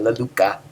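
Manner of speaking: "la luca" with a soft, unpuffed k. Shown as a demonstration. Teacher giving students the idea of kappa, lightly aspirated. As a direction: ease off the puff on the k in "la luca". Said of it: "it's not aspirated that much".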